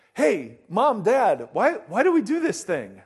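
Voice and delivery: a hint of a child tugging at parents; curious child. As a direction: ask it like an eager little kid. Child asking parents why.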